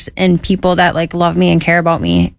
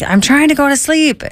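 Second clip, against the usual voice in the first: higher mock complaint; annoyed cellmate; 8 semitones higher than usual. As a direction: whine it up high like a sleepy bunkmate.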